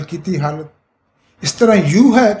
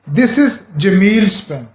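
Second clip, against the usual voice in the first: slow demo sentence; slower than usual. Shown as a demonstration. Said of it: "آپ S لگاتے ہیں".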